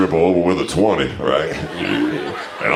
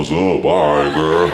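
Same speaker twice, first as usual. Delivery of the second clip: a touch of mock African American street greeting; lightly imitated Black accent. Comic mimicking his own act, light Black accent. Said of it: "did you notice how black I got".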